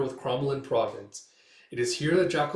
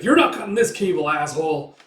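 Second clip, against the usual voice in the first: angry defiant shout; 3 semitones higher, 7 dB louder than usual. Retold or imitated. Coin to pirate slicing the cable, angry defiant shout. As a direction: act out fighting off an attacker.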